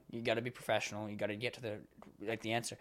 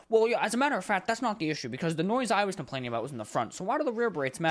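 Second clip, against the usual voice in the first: higher, louder, fast defensive rant; irritated caller; 5 semitones higher, 4 dB louder, faster than usual. Retold or imitated. Caller snapping back at the agent, fast and heated. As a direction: rattle it off like an annoyed customer.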